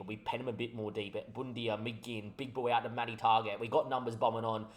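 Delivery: live play-by-play, rising energy; football commentator reading the attack; match commentary. Acted. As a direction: call the move as it builds down the wing.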